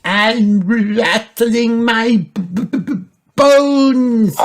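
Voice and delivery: high, slow stuttering skeleton; shaky skeleton voice. A narrator's reading. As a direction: rattle out the bones. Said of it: "shaking in a skeleton costume".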